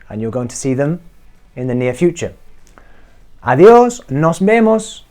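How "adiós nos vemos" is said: Adiós called higher and louder as a farewell; mock cheery farewell; cheerful goodbye. Shown as a demonstration. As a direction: wave someone off brightly. Acted goodbye to somebody.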